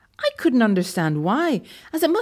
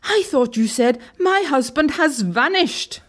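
slow, higher-pitched punchline; incredulous explanation; 6 semitones higher, slower than usual. A narrator's reading. Relieved clerk explaining what she misheard, mildly incredulous. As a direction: draw out the misunderstanding, lightly astonished.

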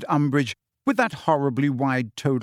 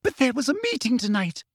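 furious; 11 semitones higher, faster than usual. Acted. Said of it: "said Umbridge furiously".

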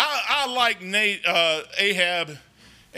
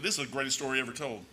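hushed awe; 9 semitones lower, 9 dB quieter, faster than usual. Acted. Proclaiming the greatest story.

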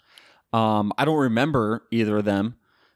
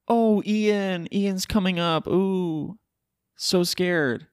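high, sarcastic fake fear; mock fright; 9 semitones higher, much slower than usual. Host mocking the weak storm name, sarcastic high fake fear. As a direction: pretend to be scared, dripping sarcasm.

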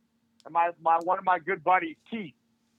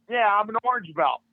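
proud boast; 3 semitones higher, 4 dB louder than usual. Retold or imitated. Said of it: "put my hands on my hip like Wonder Woman".

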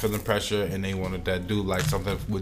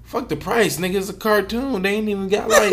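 laughing; 9 semitones higher, 3 dB louder than usual. Real, not acted. Laughing over the joke.

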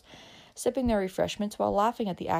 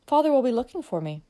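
earnest; 6 semitones higher, 4 dB louder than usual. A narrator's reading.

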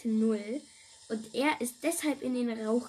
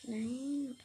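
whisper; 5 dB quieter than usual. Real, not acted. Whispered answer.

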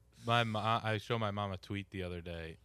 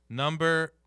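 louder, higher careful reading of the word; imitating mom reading; 7 semitones higher, 9 dB louder than usual. Son imitating his mom reading a hashtag as the word number. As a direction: read the hashtag aloud the way mom does. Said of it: "She was like".

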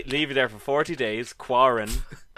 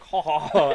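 imitated little chipmunk giggle; chipmunk laugh. Podcaster mimicking his date's laugh, imitated chipmunk laugh. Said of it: "like, the chipmunk".

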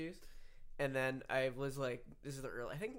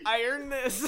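loud high laughing shout; mock proud shout; 11 semitones higher, 12 dB louder, slower than usual. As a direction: bellow it with mock pride. Quoting the proud teen.

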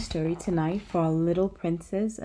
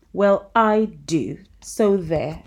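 put-on slow, loud defiant child; defiant little princess; 6 dB louder, slower than usual. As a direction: dig in like a stubborn girl. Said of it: "said the little princess".

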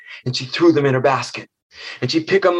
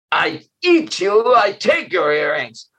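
slow, simple monster reply; blunt monster; 5 semitones higher than usual. Acted. Monster refusing the bargain, slow and blunt. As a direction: dismiss the offer flatly like a brute.

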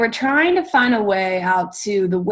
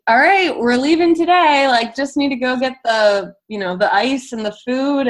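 higher, louder mock Aussie voice, easing off by the end; imitating Australian accent; 4 semitones higher, 3 dB louder than usual. Retelling the sailor Steve announcing departure, in a higher, louder mock Australian accent. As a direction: play the sailor as he announces it's time to cast off. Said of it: "like, thick Australian accent".

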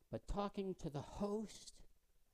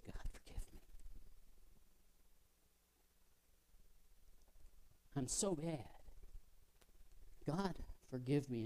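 penitent prayer; 2 semitones lower, 6 dB quieter than usual. Acted.

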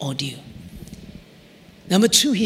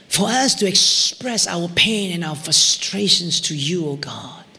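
closing prayer. Real, not acted.

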